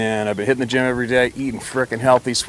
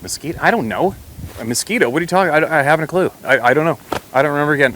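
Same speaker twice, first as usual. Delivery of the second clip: flustered confusion; 5 semitones higher than usual. Retold or imitated. Flustered answers to the doctor.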